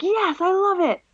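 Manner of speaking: high-pitched excited squeal of agreement; excited friend. Retold or imitated. Friend texting back about the plan, excited. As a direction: gush it, pitch leaping up. Acting friend's delighted text reply.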